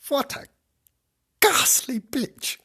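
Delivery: high, drawn-out crone insult; old woman voice. A narrator's reading. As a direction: spit it slowly as an outraged old woman. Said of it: "said the old woman".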